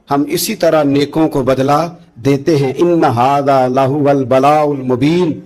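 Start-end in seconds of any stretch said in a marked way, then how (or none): 2.8-5.4 slow, chanted Arabic recitation; Quran recitation. Acted. Preacher reciting the verse to the crowd, chanted slowly. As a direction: draw out each word like tilawat.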